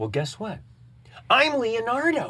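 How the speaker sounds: tiny, very high, bouncy, squeaky sing-song voice. Retelling telling a young fan who he is, in his Leonardo voice. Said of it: "And I do the little voice".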